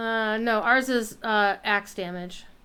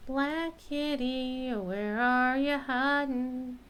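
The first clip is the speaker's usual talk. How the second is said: slow sing-song call to a kitty; calling a cat; 4 dB quieter, slower than usual. Pretend. Gamer calling a lost kitty, slow sing-song. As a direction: coax the hidden cat out, drawn out.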